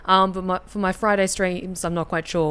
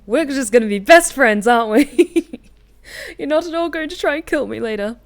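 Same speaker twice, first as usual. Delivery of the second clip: bubbly eccentric woman; playful oddball shopkeeper; quirky NPC voice; 2 semitones higher, 6 dB louder than usual. Acted.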